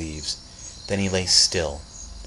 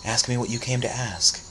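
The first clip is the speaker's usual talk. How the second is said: sly; 4 semitones higher than usual. Acted. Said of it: "She smiled slyly".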